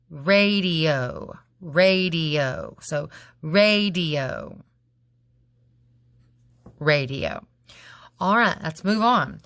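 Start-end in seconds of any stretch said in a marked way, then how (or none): 3.4-7.5 slow syllables. Shown as a demonstration.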